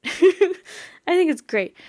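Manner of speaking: high, slow, goofy repeat of the phrase; silly put-on voice. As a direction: stretch it out in a cartoonish high voice. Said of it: "and I think it's great".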